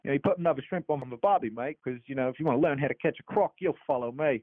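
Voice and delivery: put-on quick, jokey Australian accent, lightly done; breezy Aussie bloke in an Australian accent. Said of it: "I love talking Australian".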